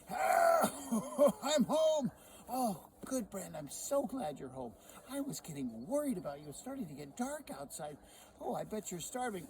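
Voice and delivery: high, loud delighted wife voice; Sally's voice pitched high and bright with welcome; cheery wife. Acted. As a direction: greet him home all aflutter. Wife Sally greets husband home.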